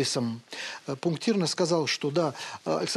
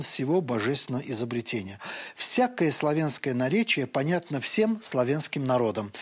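put-on reading an old text aloud, measured and solemn. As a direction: read the old author with reverence. Reads Shishkov aloud. (торжественное чтение старинного текста)

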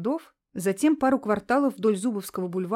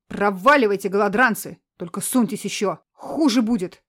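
angry yelling; 5 dB louder than usual. Acted. Man yelling from doorway.

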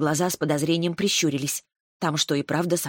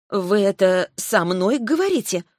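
trembling voice; 3 semitones higher than usual. Acted. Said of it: "выдавила я. Голос тоже дрожал".

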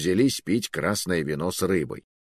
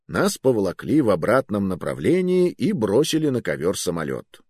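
usual speaking voice

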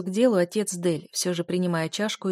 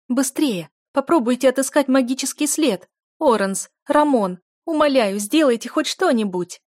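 higher, louder shouting, sniffling; tearful shout; 6 semitones higher, 7 dB louder than usual. A narrator's reading. Duchess begging the lords to find her daughter, tearful shouting. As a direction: scream for help through tears. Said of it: "закричала герцогиня, шмыгая носом".

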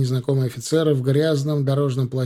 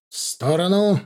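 loud, high bark; officer forcing the road open, barking; barked command; 7 semitones higher, 4 dB louder than usual. A narrator's reading. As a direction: snap it out to clear the way. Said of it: "рявкнул выехавший вперёд офицер".

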